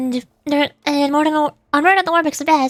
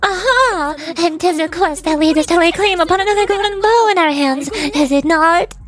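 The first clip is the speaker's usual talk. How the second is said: brimming with excitement; 2 semitones higher than usual. Acted. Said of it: "brimming with excitement".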